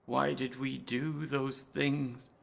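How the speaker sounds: soft, slow regret; hushed and heavy; quiet. Acted. Carter quietly regretting their research, slow and soft.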